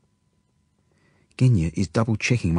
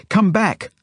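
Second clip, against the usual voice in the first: urgent cry, pitched far up; frantic yell; 12 semitones higher, 4 dB louder than usual. A narrator's reading. Genya orders the runaway girl back, frantic yell. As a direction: call desperately after a runaway child. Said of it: "I hear Genya yell frantically".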